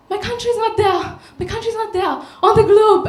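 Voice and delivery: high, tearful retelling of her cry; a sobbing friend's quote, mimicked lightly; imitating tearful friend. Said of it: "and she's crying".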